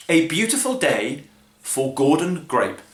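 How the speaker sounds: A Beautiful Day for Gordon Grape in a put-on announcer voice; slow, grand announcement of Beautiful Day; dramatic title voice. Shown as a demonstration. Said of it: "is this".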